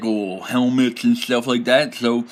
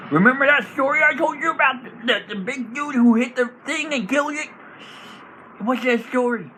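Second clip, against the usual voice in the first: inspiring goblin bard; 11 semitones higher than usual. Acted. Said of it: "bardic inspiration".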